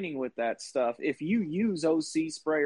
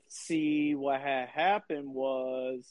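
sheepish excuse; 3 semitones lower, 3 dB quieter, much slower than usual. Pretend. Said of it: "I would have led with".

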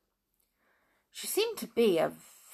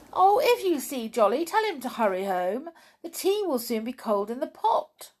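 higher, louder call to a passer-by; 6 semitones higher, 4 dB louder than usual. A narrator's reading. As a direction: call a message out to someone going by. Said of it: "Tiptoe called to him".

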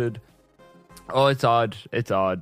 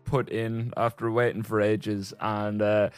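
slight lisp. Real, not acted. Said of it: "as you might be able to hear from my very, very slight lisp".

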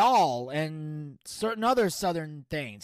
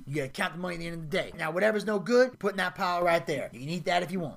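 Smokey; faster than usual. Retold or imitated. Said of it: "And then he's like".

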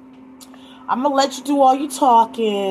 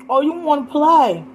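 mocking challenge, up and louder; taunting; 6 semitones higher, 3 dB louder than usual. Real, not acted. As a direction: dare them to play. Taunting scammer, rising loud.

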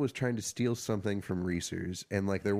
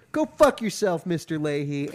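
2 retold outburst, much higher and louder; 3 spit it back at the boss while walking off; 4 imitated contestant yelling at his boss; 1 angry insult; 6 semitones higher, 6 dB louder than usual. Trevor's parting insult on the show.

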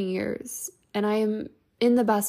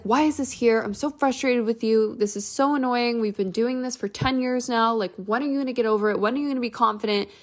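frustrated self-talk; 3 semitones higher than usual. Retold or imitated. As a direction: scold yourself, fed up. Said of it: "I'd be like".

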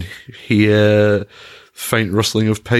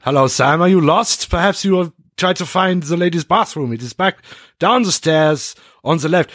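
lightly voiced old German man, a bit higher and stiffly polite; a hint of a fussy old German office owner; elderly German gentleman; 8 semitones higher than usual. Game master plays the old German restaurant owner questioning the intruding player. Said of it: "Mister Richter is an elderly German gentleman".

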